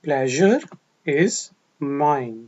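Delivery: "Pleasure" rising, pause, then "is mine" falling; phrase-by-phrase drill; broken into parts. Shown as a demonstration. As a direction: split the phrase in two for practice. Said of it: "ये मेरे लिए खुशी की बात है।".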